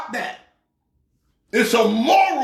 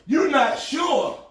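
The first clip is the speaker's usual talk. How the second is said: incredulous; 3 semitones higher, slower than usual. Real, not acted. Disbelief at assistant's answer.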